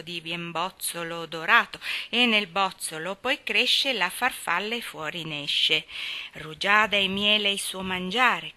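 loud, important recital. Acted. Demi reading his butterfly poem to the school, pompously declaiming. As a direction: recite each verse like a proud little poet. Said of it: "voce forte e aria d'importanza".

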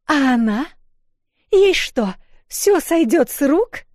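high, loud outraged yell; outraged shout. A narrator's reading. Crowd member shouting outraged.

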